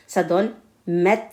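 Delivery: "met" closed with a stopped final t; sukun ending. Shown as a demonstration. Teacher models "met" with a sukun ending. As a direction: say "met" with the t held silent at the end. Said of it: "le ta à la fin avec sukoun".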